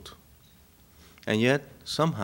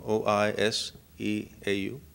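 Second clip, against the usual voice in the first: 1 spelling out. Shown as a demonstration. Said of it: "oiseau, you know".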